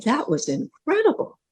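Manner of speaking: a touch of wonder in the voice; mildly awestruck praise; amazed. Retold or imitated. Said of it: "so amazed".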